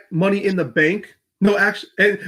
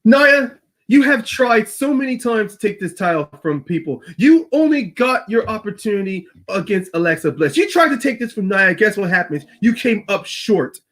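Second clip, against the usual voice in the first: put-on Irish accent; 4 semitones higher than usual. Becky reminding Nia of her failed title shots, Irish accent. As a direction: throw it at the rival in an Irish accent. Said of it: "when you're doing your accent".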